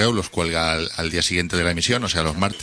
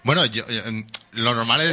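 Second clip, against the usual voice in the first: hoarse, hollow voice from the grave; raspy, as if from beyond the grave; voz de ultratumba; 3 semitones higher than usual. Real, not acted. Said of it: "Es la voz de Ultratumba". (voz ronca de ultratumba)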